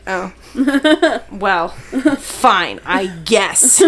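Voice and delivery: grudging. Retold or imitated. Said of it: "and I'm like".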